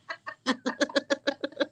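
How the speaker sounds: high, helpless cackle. Real, not acted. Friend cracking up at the Eric impression, high cackle. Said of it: "the cackle that I just made".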